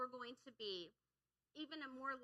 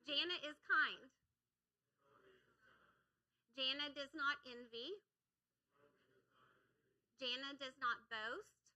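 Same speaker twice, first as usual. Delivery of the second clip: louder. Real, not acted. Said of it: "you can say it louder than that".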